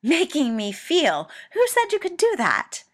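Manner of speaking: loud, climbing furious shout. A narrator's reading. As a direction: rage up to a shriek. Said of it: "incandescently furious".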